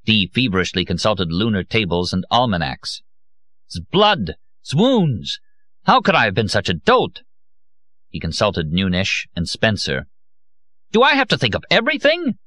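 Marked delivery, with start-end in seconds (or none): 3.7-12.4 shrieking fury at a fool; screaming rage. A narrator's reading. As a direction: scream it at a bumbling colleague. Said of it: "he screamed at Nunes".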